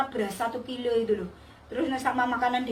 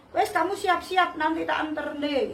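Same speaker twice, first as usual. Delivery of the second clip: mildly irritated, pitched up; retold grumpy boss; 4 semitones higher than usual. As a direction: imitate a grudging boss giving in. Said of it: "Lah bosnya ngamuk-ngamuk". (menirukan bos mengomel, nada naik)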